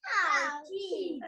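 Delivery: How cheesy in a light mock Italian-Indian accent, slowed. Girl playing a waiter for her parents, light mock Italian accent. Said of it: "a little bit of an Italian accent mixed with some Indian accent".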